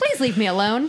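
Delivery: put-on cheerful voice. Retelling what he said about the cat: imitating a cheerful voice. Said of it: "cheerful his voice sounded when he was like".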